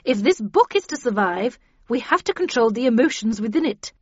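loud, forceful lecture; cold, stern warning. A narrator's reading. Havisham warns the characters to contain their anger, sternly. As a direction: lecture the group severely, stressing each danger. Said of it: "said Havisham coldly".

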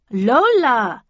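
indignant, drawn-out name correction; insistent correction. A narrator's reading. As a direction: correct them firmly on your name. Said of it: "she corrected me".

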